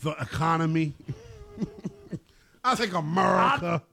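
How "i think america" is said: lightly put-on fan voice; gently mock a complacent fan; mock baseball fan. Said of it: "mocking Major League Baseball fans".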